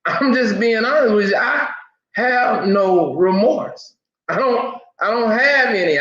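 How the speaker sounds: pitched well up, heated and wound up; real anger with nervous laughs breaking in. Real, not acted. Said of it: "I'm, I'm mad".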